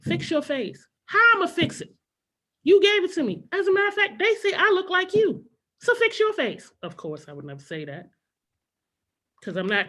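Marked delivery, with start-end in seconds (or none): 0.0-0.9 higher, stern mom scolding; mom's stern line. Retold or imitated. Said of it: "another one she would say all the time". 1.1-6.7 high, loud sassy comeback; talking back. Pretend. Kid talking back to mom.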